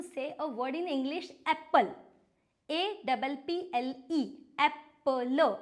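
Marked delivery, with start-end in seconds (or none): 1.5-1.9 apple said as three sounds, AP-pl, louder; English word demo. Shown as a demonstration. Teacher showing kids how apple sounds, loud and clear. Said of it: "I am pronouncing three letters". 4.6-5.6 apple said as three sounds, AP-pl, louder; English word demo. Shown as a demonstration. Teacher showing kids how apple sounds, loud and clear. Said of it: "I am pronouncing three letters".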